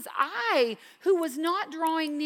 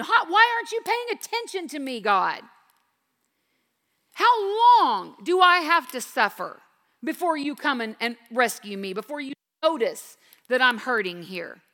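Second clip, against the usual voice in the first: a touch of anguish, asking God why; mock frustrated lament; frustrated plea; 4 dB louder than usual.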